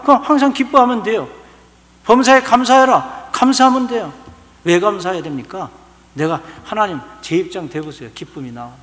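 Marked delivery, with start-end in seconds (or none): 2.0-3.3 loud, high, with weight on 범사에; full-force pulpit proclamation; proclaimed command. Acted. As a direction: declare it to the congregation. Preacher proclaims scripture command.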